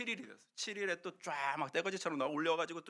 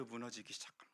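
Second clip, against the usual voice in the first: hushed drama; 7 semitones lower, 15 dB quieter, faster than usual. Acted. Dramatic wall collapse.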